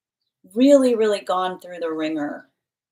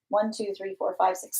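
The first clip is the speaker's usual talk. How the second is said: quiet counting; 2 semitones higher, 6 dB quieter than usual. Real, not acted. Counting names on list quietly.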